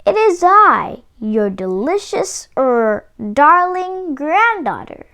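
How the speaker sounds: a wolf half-hiding his own voice; wolf in a high voice. Acted. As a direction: put on a high sweet voice to fool Granny. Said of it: "said the wolf in a high voice".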